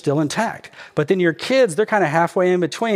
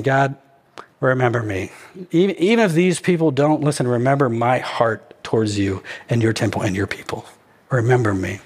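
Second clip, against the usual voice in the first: subdued, lower-pitched imitated prayer; acted prayer, settling low; praying; 3 semitones lower than usual. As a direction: plead with God, pausing between phrases. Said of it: "He's praying. He's talking to God".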